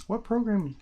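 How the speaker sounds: pushed, impatient repeat of What program?. Real, not acted. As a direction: repeat it, insisting on an answer.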